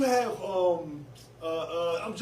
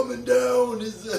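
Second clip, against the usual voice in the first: slow, louder hyped announcer call; monster truck announcer; 6 semitones higher, 7 dB louder, slower than usual. Retold or imitated. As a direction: boom it out over a stadium. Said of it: "Monster Truck announcer voice".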